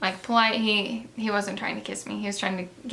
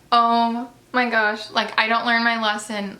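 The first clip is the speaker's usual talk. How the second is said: slow, louder groan of embarrassment; mock mortified; 5 dB louder, slower than usual. After telling him she wants to marry him, a hammed-up embarrassed groan. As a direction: drag out the gosh like a facepalm.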